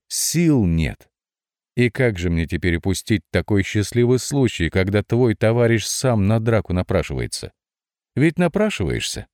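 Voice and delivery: lightly voiced playful fox; sly fox voice. Fox's long teasing speech.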